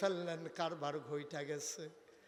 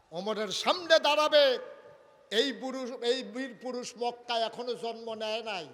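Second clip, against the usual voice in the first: raised, defiant sermon voice; bold preaching; 8 semitones higher, 12 dB louder than usual. Acted. Umar boasting nobody can face him, bold declaration. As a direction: boast it out to all of Mecca.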